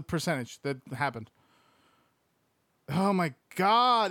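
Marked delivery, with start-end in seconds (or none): 2.9-4.1 slow, louder disbelieving gasp of words; stunned oh my god. Real, not acted. Streamer reacting to the odds, stunned. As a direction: let the number floor you. Shocked by the tiny percentage.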